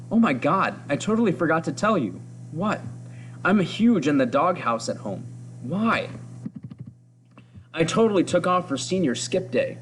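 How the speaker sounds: chatty schoolgirl gossip, only lightly put on; teenage girl voice. Reading the comic's teen girls aloud to the class, a hint of girlish gossip. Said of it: "I'm doing my best with this teenage girl voice".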